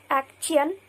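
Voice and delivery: action with a plain t, ak-tun; unmerged t. Shown as a demonstration. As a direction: say action as ak-tun, t and y kept apart. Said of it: "we pronounce it".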